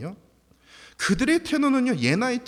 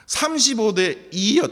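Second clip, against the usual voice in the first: laughing emphasis; 6 semitones higher, 6 dB louder, slower than usual. Real, not acted. Laughing repeat of the score.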